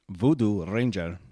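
Voodoo Ranger said slow and low; host repeats the brand name, slow and low; slow low read. Shown as a demonstration. Drag Voodoo Ranger out, low and slow. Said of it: "Just say".

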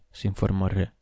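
ordinary delivery, nothing marked

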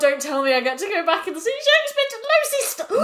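excited friend imagining meeting Shakespeare, gushing; overexcited. Real, not acted. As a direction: gush as if the dream just came true. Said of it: "I got really overexcited then".

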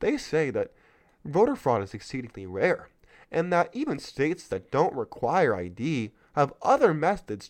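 Mister Milquetoast. Acted. Reading the article to viewers in a mock meek voice. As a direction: read it like a timid pushover, dripping irony. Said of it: "sound like Mister Milquetoast".

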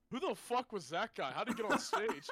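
put-on loud and incredulous like a drunk at a show; hammed-up drunk shout. A drunk fan yelling at the stage, mock shout.

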